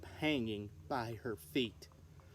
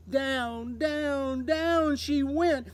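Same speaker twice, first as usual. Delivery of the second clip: each down rising higher, slowing at the end; building down, down, down; dramatic falling words; 6 semitones higher, 5 dB louder, much slower than usual. A narrator's reading. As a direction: let the voice fall with her. Falling down into the forest.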